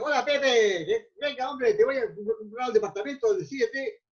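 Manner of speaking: breezy, pushy salesman's hello at normal volume; slap-on-the-back familiar pitch to a client; casual hearty greeting. Shown as a demonstration. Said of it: "No, no puedes hacer eso".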